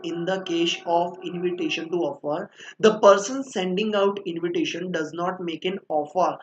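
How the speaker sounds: very slow, word-by-word dictation. Shown as a demonstration. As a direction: spell it out for the class to copy. Dictating the definition from the book.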